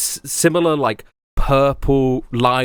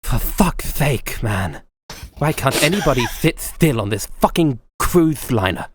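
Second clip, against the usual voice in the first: lightly voiced exasperated commander, slow; a hint of the weary, irritated officer; Faraday scolding Navina, lightly voiced exasperation; Faraday's way of talking. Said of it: "I forgot that's how he talks".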